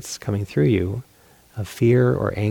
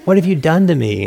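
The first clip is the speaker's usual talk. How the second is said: frustrated outburst; 4 semitones higher than usual. Retold or imitated. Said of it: "I was like".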